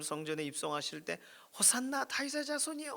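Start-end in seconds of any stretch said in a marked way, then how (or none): 1.6-2.9 put-on children cheering. Children hailing Jesus entering Jerusalem, high mock cheer. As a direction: imitate children calling out in praise. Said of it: "환호를 지르던 아이들이".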